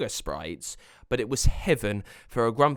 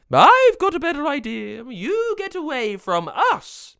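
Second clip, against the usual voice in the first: very high, loud sprite yell; defiant yell; 9 dB louder than usual. Acted. Sprite standing up to the wizard, defiant high yell. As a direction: yell it back, slowing on the final order. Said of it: "she yelled".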